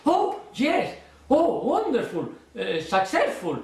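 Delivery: bursting with delight, high and far; expansive delight. Shown as a demonstration. Magician to spectator, showing expansive delight. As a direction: gush over the spectator's answer. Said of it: "If your style is not so, uh, expansive like me".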